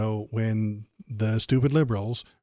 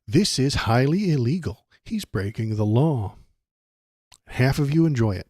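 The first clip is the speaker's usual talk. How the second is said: mock Tapper. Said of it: "that's what he could say".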